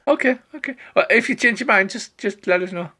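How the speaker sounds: very high, backing off; high, crestfallen minstrel; deflated bard. Acted. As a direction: retreat politely, still hopeful. Bard backs down.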